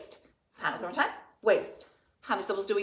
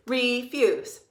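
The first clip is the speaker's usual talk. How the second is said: pounding the word; 3 semitones higher, 5 dB louder than usual. Shown as a demonstration. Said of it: "Pound with me, please".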